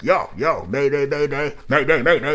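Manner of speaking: a light take on a rapper's high-energy yo mayday; imitating a rapper's energy. Reviewer shows how the rapper pulls off the chant, energetic. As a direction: hype but natural "mayday, mayday". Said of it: "'cause the rapper, when it's like".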